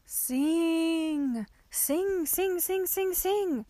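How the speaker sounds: high, sustained, insistent chant-like call; urgent inner voice. A narrator's reading. Urgent voice echoing in a trapped girl's head, high and insistent. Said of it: "forced itself even more urgently".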